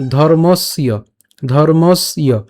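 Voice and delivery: "ধর্মস্য" split as dhormos-iyo, with the glide sounded; y-glide pronunciation. Shown as a demonstration. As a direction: say "ধর্মস্য" closing s, then a clear "iyo". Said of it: "ইয়র মতো করি".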